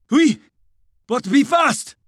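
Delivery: high-pitched hurry-up call; urgent urging. A narrator's reading. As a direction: press him to hurry. Officer urging haste.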